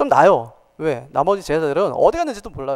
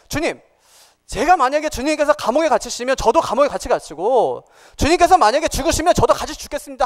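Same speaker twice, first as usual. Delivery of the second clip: earnest retold vow, pitched higher; sincere pledge; 5 semitones higher than usual. Peter vowing loyalty to his Lord, mildly acted sincerity. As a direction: voice Peter's heartfelt promise, rising in pitch. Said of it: "하는 말은 진심이었어요".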